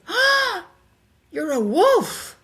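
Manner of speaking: high, loud, slowed gasp of wonder; awed exclamation. Retold or imitated. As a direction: gasp it out in sudden awe. Stunned recognition while on psychedelics.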